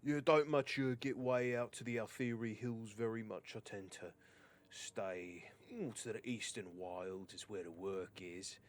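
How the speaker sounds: lightly voiced rambling sellsword; accented local guard chattering on. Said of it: "just kinda begins rambling".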